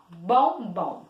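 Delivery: "Bombom" as two separate beats, BOM, BOM; low, split "Bombom" into two syllables; "Bombom" measured out syllable by syllable. Shown as a demonstration. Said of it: "Duas vezes".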